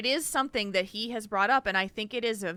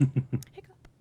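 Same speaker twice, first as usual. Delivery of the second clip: hiccup; 6 semitones lower, 4 dB louder than usual. Real, not acted. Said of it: "I'm hiccuping".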